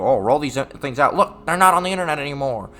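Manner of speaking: mock gloating. Mimics opponents gloating at the outage.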